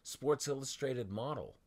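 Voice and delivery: quoting herself all excited. Retold or imitated. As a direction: recall your own thrill at the news. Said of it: "Here I'm all excited".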